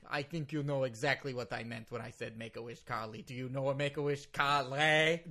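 put-on indignant lawyer in thick Russian-accented English. Lawyer challenges confused host, thick Russian accent. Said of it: "because of my thick Russian accent".

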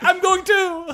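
high, put-on Sherpa voice. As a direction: play the eager Sherpa. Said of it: "the Sherpa would be like".

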